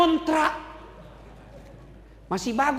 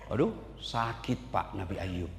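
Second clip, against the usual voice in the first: soft pained; 9 dB quieter than usual. Acted. Describing Ayub's pain.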